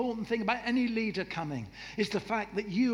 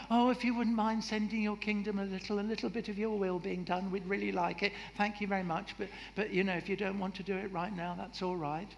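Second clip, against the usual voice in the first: timid polite asking; 3 semitones higher than usual. Shown as a demonstration. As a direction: ask meekly, apologising as you go.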